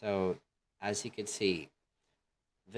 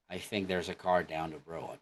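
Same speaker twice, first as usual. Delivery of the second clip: American accent; 2 semitones lower than usual. Shown as a demonstration. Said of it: "That's American".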